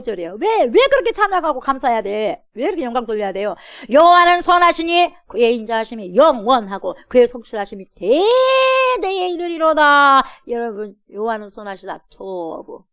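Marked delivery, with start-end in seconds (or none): 3.9-10.2 loud, slowing proclamation of scripture; emphatic recitation. Acted. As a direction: proclaim each word, drawn out at the end. (힘주어 선포하듯)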